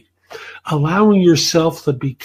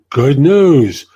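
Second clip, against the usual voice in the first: louder, punchy announcement of news; mock excited recruiter; 5 dB louder than usual. Recruiter smelling commission tells candidate the news, mock excited. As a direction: imitate a recruiter trumpeting good news. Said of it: "They're excited because they're smelling commission".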